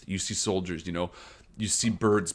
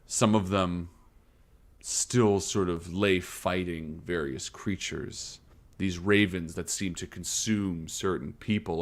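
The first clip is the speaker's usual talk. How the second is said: game master scene setting; 4 dB quieter than usual. Acted. Game master describing a battlefield to players, solemn narration. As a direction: paint the grim scene in deliberate phrases.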